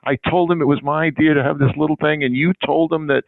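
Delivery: a lightly voiced, high-pitched anxious florist; high apologetic woman. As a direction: play the flustered flower woman begging to explain. Flower woman apologizing on phone.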